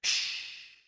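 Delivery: unvoiced whispered shush; whispered hush. A narrator's reading. James hushing the ladybird near the creatures, whispered shush. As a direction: hush them urgently. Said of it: "James whispered back".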